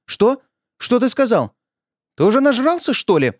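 high, rising scolding wife; lightly hammed-up wife lamenting down the phone; high-pitched reproachful wail. A narrator's reading. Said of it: "запричитала Женя".

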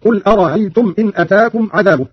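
أرأيتم with the second hamza eased into a glide; no hard glottal stop inside أرأيتم; softened second hamza. Shown as a demonstration. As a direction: soften the middle catch in أرأيتم. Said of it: "قرأ قالون بتسهيل الهمزة الثانية".

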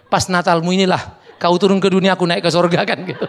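joking through laughter; laughing. Real, not acted. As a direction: chuckle out the joke. (sambil tertawa)

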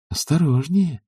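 a sly high warning; playfully sly caution. A narrator's reading. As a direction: tease him with the warning. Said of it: "лукаво сказала она".

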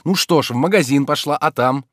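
Oblomov, pressing. A narrator's reading. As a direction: push her for the rest. (Обломов торопит)

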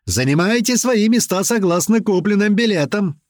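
high shouted mock flight announcement. A narrator's reading. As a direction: bark it like a joking flight attendant. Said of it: "кричит мамуля". (шутливое объявление криком)

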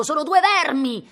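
two hurled words of disgust, high and loud; furious outburst. Acted. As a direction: spit it out in jealous fury. Cosimo raging in the tree.

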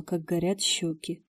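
plain reading voice

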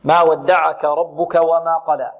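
very slow ما ودعك with thin, light letters; slow recitation. Shown as a demonstration. Teacher reciting the verse slowly to model it. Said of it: "اللام هنا مرققة".

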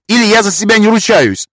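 put-on high, trembling old man's voice; quavering voice. A narrator's reading. Master defies lord in a quavering high voice. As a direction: let the voice rattle and shake. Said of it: "заорал мастер".

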